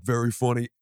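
lightly imitated cohost's dry reply; light impression of a deadpan sidekick; Joe's voice. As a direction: answer as the cohost, in his voice. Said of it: "In that voice".

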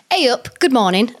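Yorkshire greeting in a light accent. Shown as a demonstration. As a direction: say hey up like a Yorkshire local. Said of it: "Let's try again".

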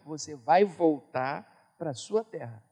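a hushed heavenly promise; voice of the Spirit. Retold or imitated. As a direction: speak gently as God promising. O Espírito Santo já tinha colocado.

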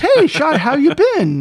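mock-casual hello, pitched high; playful, high pretend phone greeting; chummy greeting. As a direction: greet a famous pal far too familiarly. Imagined chummy call to star.

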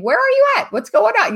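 mock frantic friend. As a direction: squeak out the panicked text message. Quoting friend's worried text.

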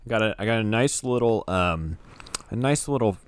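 chewing while talking; talking through a mouthful; mouth full. Real, not acted. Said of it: "if you hear me chewing".

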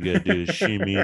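a goofy pitch spike on shimmy; playful. Retold or imitated. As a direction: tease it out quick and squeaky. Mock expert explaining trimming.

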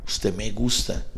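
low, soft and slow, like a shy confession; telling a woman he likes her, soft and slow confession. Retold or imitated. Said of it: "mirar a los ojos y decirle".

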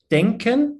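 denken said the German way, DEN-ken with a crisp k; German word denken. Shown as a demonstration. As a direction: say denken as a German speaker would. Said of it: "in German".

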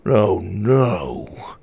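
dismayed cry. A narrator's reading. Grandfather finding the statue gone, dismayed. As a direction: let it sink in with dismay.

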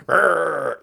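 short comic "French" growl; mock French-accent growl. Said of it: "that's his French accent".

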